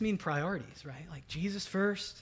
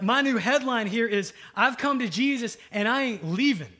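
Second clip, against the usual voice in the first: new headline; 6 semitones higher, 10 dB louder than usual. Retold or imitated. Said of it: "you're like".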